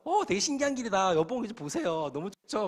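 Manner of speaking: 신나서 높게 들뜬 아내 흉내; bubbly, delighted wife marvelling at the road; excited wife. Retold or imitated. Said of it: "우리 아내는 옆에 신났어". (신기한 길에 들뜬 아내 목소리)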